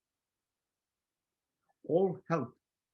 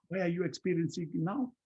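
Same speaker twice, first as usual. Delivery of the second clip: higher-pitched probing question; questioning oneself; 5 semitones higher than usual. Acted. Speaker interrogating their own anger, probing and higher. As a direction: press yourself for an answer. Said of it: "By questioning myself".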